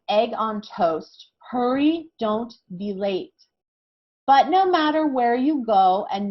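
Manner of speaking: slow, careful chant reading; reading slowly. Shown as a demonstration. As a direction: read each line slowly so kids can clap. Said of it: "So I'm gonna read this really slowly".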